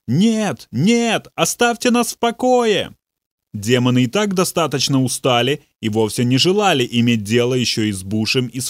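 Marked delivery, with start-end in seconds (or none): 0.1-2.9 panicked cry, much higher; terrified scream. A narrator's reading. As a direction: scream it as if swarmed by invisible things. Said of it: "он закричал с ещё большим испугом".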